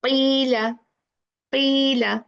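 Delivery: "Qila" with a held ee, lips spread; long spread i. Shown as a demonstration. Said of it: "Spread and little bit down".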